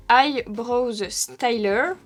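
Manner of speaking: slow, carefully drawn-out English accent; showy English accent. Shown as a demonstration. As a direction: say it slowly in your best English accent. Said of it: "J'ai fait un super accent". (accent anglais appliqué)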